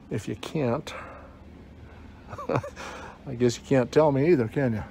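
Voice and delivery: muffled behind a mask; talking through a face mask. Real, not acted. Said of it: "with my mask on".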